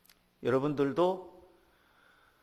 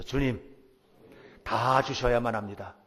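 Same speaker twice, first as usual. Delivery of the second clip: louder, with weight on 다, falling firmly at the end; bold declaration; 6 dB louder than usual. Shown as a demonstration. The congregation repeats the prayer after the preacher, louder and bold. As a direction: proclaim 다 주셔야만 합니다 boldly, leaning on 다. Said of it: "한번 따라서 해보세요".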